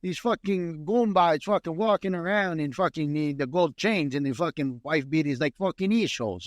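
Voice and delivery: hammed-up, drawn-out New York accent. Mock documentary on goombas over here, hammed-up New York accent. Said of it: "documentary in that accent".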